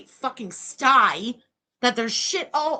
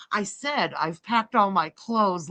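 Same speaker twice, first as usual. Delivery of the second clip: tag; 5 semitones lower, slower than usual. Retold or imitated. Mock quote, insisting on repeat.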